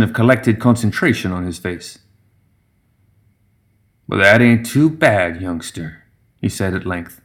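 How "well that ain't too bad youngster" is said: put-on slow, approving old gremlin; drawn-out, considered praise from an elder; old gremlin brewmaster. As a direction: weigh the verdict slowly as a veteran brewer. Voices the old brewmaster judging drink.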